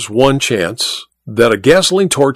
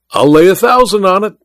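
cried out; 7 semitones higher than usual. A narrator's reading. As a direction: throw down the bet boldly. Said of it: "cried Welton".

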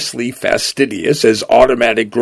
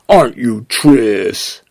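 cooing; slower than usual. Acted. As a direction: coo it like to a pet. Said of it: "it cooed".

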